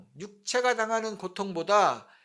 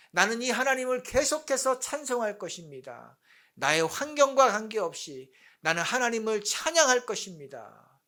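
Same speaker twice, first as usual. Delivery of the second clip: building declaration of faith; proclaiming; 2 semitones higher than usual. Shown as a demonstration. Preacher modelling how to declare God's character, building proclamation. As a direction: start restrained, lift into firm proclamation. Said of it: "선포해야 되는 것입니다".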